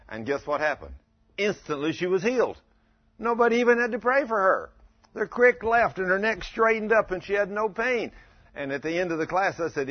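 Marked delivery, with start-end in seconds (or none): 1.4-8.1 triumphant preaching. Acted. Triumphant healing report.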